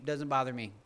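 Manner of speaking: normal talking voice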